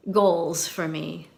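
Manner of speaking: "goals" stretched slowly with a long buzzing z; slow "goals for me" with the z held long; drawn-out goals. Shown as a demonstration. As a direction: drag out "goals" like goalzzzzz. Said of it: "Goals with five Z's at the end".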